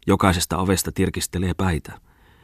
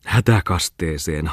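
laughing; slower than usual. Acted.

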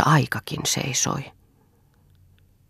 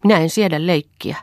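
indignant, higher and firm; angry maid; 5 semitones higher, 5 dB louder than usual. A narrator's reading. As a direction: refuse to be mocked. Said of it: "sanoi Hilja vihaisesti".

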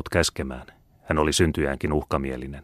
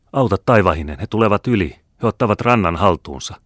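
higher, louder cry of alarm; alarmed outcry; 4 semitones higher, 6 dB louder than usual. A narrator's reading. Watcher seeing the enemy take the shore, alarmed. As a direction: cry out as the enemy gets across.

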